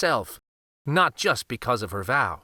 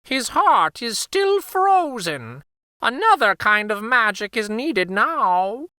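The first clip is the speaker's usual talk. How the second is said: grave Firebird; 8 semitones higher, 4 dB louder than usual. Acted.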